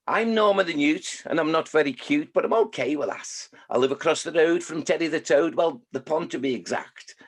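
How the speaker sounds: lightly performed Scouse newt; Scouse accent in sing-song verse; Norma the Newt. Acted. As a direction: recite it with a Liverpool lilt. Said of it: "I've got the Evertonians in there".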